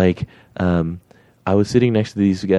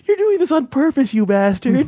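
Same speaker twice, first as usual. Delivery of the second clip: high-pitched mock outraged cry; comic squawk breaking into laughter; laughing retold shout. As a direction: imitate a laughing accusation, pitched way up. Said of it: "he just started laughing, and he shouts out".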